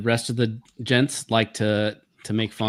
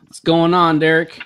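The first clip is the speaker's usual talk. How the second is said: Deep soul singer voice; 6 semitones higher, 8 dB louder than usual. Acted. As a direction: lay on the soul singer croon. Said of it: "We got that soul singer voice tonight".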